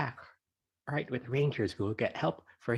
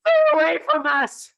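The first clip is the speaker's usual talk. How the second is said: loud frightened yell; 9 semitones higher, 10 dB louder than usual. Acted. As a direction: drive it off with a yell. Chad sprays the hawk.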